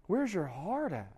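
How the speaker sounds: drawn-out echo of the question. Real, not acted. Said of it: "preacher asks the crowd".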